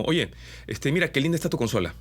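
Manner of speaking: light Peruvian lilt, quick; casual Peruvian singsong on "consola"; Peruvian accent. Shown as a demonstration. Voice coach demos a Peruvian lilt on a compliment. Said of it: "podría decir algo así como".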